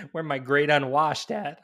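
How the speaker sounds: loud rallying cry to the crowd; fiery revolutionary speech. Pretend. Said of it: "radical anarcho choice".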